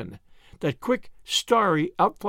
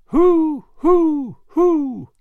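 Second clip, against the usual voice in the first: loud high echo calls; a boy hooting to wake the echoes; high, loud hoots across the river; calling out hoo; 10 semitones higher, 8 dB louder, much slower than usual. Acted. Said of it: "went Paul on the dike".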